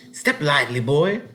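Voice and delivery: gruff, impatient order from the farmer; cross. A narrator's reading. Farmer crossly hurrying the boy along, cross. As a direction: snap it at the boy, annoyed. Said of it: "the man spoke crossly".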